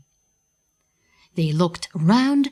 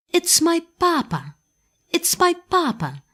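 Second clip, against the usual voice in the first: much higher, urgent repeated call; cried out; 12 semitones higher than usual. A narrator's reading. Pinocchio spots his father far out at sea, crying out high. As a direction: cry out to the boat on the sea. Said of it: "he cried".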